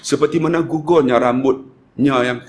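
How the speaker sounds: low, gently spoken prayer; leading a supplication. Retold or imitated. Praying over pilgrim while cutting hair. (doa merayu bernada rendah)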